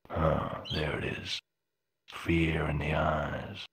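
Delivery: slow low whisper. Acted. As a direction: breathe it to yourself. Unvoiced aside in game.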